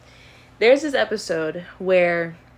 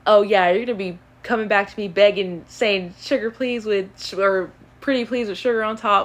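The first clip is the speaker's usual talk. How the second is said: light imitation of a Southern accent; lightly put-on Southern accent, a little louder at the start; 2 semitones higher, 3 dB louder than usual. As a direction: retell it with a hint of Southern accent. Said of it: "like, a Southern accent".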